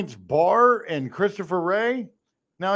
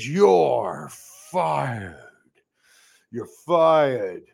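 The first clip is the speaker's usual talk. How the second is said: mock boss firing; 5 semitones lower, much slower than usual.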